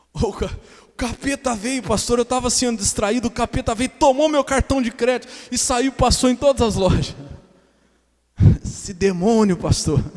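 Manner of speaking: loud, high hammed-up believer blaming the devil; a believer pleading with the pastor, loud and high, half-laughing; mock excuse. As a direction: play a flustered churchgoer making excuses, ham it up.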